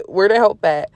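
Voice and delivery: chuckling through "Where the help at"; laughing repeat. Real, not acted. Preacher laughing at her own complaint to God. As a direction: laugh as you say it again.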